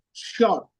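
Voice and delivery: "sure" set apart as the key word; "sure" said as an emphatic quoted word; stress on sure. Shown as a demonstration. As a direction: land on "sure" with a firm fall. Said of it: "He's emphasizing on the word".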